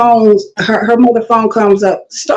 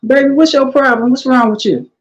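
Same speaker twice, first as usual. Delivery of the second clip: fast, higher, sugary-sweet put-down; said with a smile; 4 semitones higher than usual. Retold or imitated. To a rude customer at work, smiling sweetly while telling her off. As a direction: kill her with kindness, smiling through it. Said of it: "with a smile".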